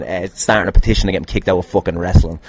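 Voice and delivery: normal talking voice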